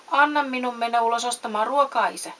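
put-on a wooden boy asking eagerly. A narrator's reading. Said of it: "Pinokkio pyysi". (pienen pojan pyytävä ääni)

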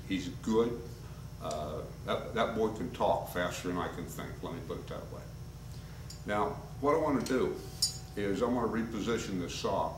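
ordinary talk

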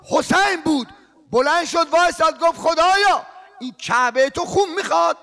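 loud, urgent mourning sermon, rising to shouts; impassioned preaching. Real, not acted. Preacher stirring the mourners, impassioned and loud. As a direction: preach at full force to the mourners. Preaching rowzeh at full force.

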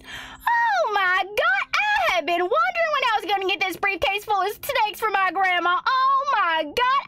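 over-the-top excited gasping praise; hammed-up delight.

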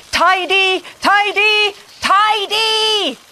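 robot about to blow up; robot overloading as mess grows; frantic robot. A narrator's reading. Robot overloads before exploding.

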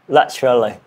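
British-style "Laterally", middle syllable squeezed; British accent. Shown as a demonstration. Learner repeating the British version, British accent attempt. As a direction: try "Laterally" in British English. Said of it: "in British".

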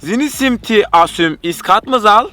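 slow fake foreign gibberish; backwards speech. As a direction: talk like a foreigner, slowly. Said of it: "Tersten söyleyeceğim".

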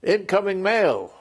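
high, drawn-out call into a tent; town-crier style holler, not full volume; imitated yell. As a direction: call it out slowly, pitched well up. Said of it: "sticks his head in the tent and yells".

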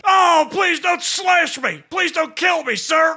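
mock pleading Viet Cong. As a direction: ham up a begging soldier, slowly. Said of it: "I'm gonna do an impression of a Viet Cong".

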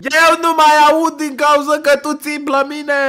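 high, sustained yell; yelling in argument. Pretend. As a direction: shout over your partner. Shouting match over who is yelling.

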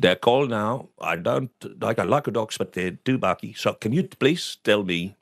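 imitated Dutch-accented English. Dutch customer asking about the dogs, Dutch accent. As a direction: do an old house painter's Dutch accent. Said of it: "I'm doing an accent".

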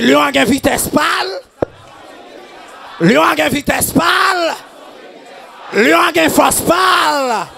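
shouted, driving sermon cadence; fiery preacher in full flow; full-force preaching. Acted. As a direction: preach it hard to the congregation. Preaching on Samson and lion.

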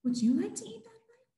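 quick, high and bright as a chirpy duck. Acted. Duck eagerly asking goat about the bike, high and quick. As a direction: squeak it out fast like a little duck.

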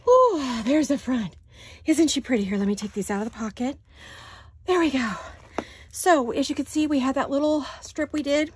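breathless after lifting; talking while out of breath. Real, not acted. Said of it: "Sorry, I'm out of breath".

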